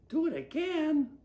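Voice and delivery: high, loud disbelieving echo; can't believe what they hear; shocked echo. Acted.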